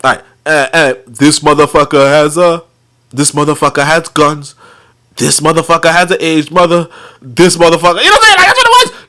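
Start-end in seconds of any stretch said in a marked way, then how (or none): 1.1-8.0 deliberate counting-rhyme cadence; nursery-rhyme counting. Acted. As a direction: count each point off like little piggies. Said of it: "look at the, count it your hands".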